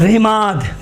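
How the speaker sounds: رماد with a light r and narrow "i"; unrounded "ri" opening in رماد; slow, careful light start on رماد; thin r. Shown as a demonstration. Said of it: "دیکھیں باریک".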